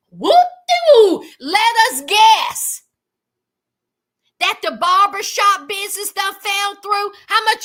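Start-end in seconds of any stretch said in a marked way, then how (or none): 0.1-2.8 sarcastic. Real, not acted. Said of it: "sarcastic reaction".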